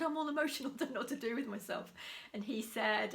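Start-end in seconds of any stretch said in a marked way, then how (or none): 0.0-1.9 laughing quote. Retold or imitated. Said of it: "came home and I said".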